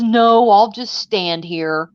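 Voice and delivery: slow, drawn-out mock refusal; stubborn refusal. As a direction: imitate a sulky husband, stretching the words. Husband stubbornly refuses to leave.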